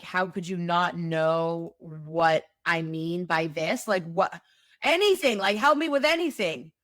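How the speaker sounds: mock exasperation rising to a peak; frustrated outburst. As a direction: vent at someone who just doesn't get it. Frustrated reply in acted scene.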